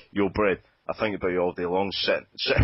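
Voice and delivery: broad Glaswegian rap delivery; Glaswegian accent. Acted. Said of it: "in a broad Glaswegian accent".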